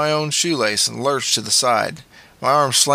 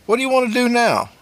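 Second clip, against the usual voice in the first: put-on boyish voice; 12 semitones higher, faster than usual. A narrator's reading. Wolf voiced by narrator.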